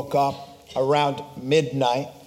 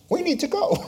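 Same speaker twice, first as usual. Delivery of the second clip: urgent alarm; 13 semitones higher, faster than usual. Retold or imitated. Urgent realisation at seeing fire.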